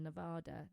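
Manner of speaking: Nevada with a broad "ah" in the middle; Nevada, middle vowel as in "father"; local mispronunciation corrected. Real, not acted. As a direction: say Nevada as "ne-VAH-da". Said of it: "You're not allowed to say Nevada".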